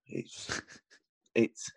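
a whisper with a stifled laugh; hushed whisper. Real, not acted. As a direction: keep it down, a hotel neighbour is asleep. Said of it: "I've got to be quiet".

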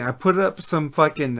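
hiccuping while talking; hiccups. Real, not acted. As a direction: speak through hiccups. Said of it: "I'm hiccuping right now".

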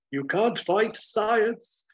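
high, slow, loud hammed-up declaration; theatrical slow boast; triumphant scientist. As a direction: declare it like a mad genius. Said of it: "and he says".

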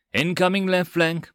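urgent callout; yelled warning. A narrator's reading. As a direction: shout the threat to the crew. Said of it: "Barkley yelled".

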